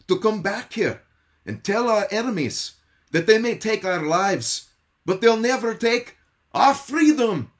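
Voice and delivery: a pastor's rough stab at a Scottish brogue, rising into a rallying cry; attempted William Wallace Scottish accent. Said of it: "complete with an attempted Scottish accent".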